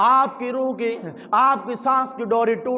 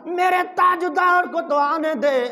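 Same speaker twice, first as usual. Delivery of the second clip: mock weeping plea; 5 semitones higher than usual. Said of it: "وہ رو رو کر یہی کہتا ہے".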